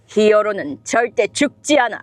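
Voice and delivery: anime heroine line. Shown as a demonstration. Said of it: "시무라 나나라는 캐릭터 하고 있는데요".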